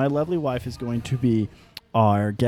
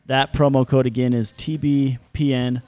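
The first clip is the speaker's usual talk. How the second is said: upbeat sponsor read. Acted. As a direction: sell it like a radio ad. Reads ad again.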